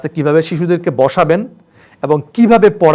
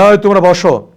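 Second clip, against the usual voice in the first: stern command; 4 dB louder than usual. Shown as a demonstration. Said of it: "এটা তারা নিতে পারবে না".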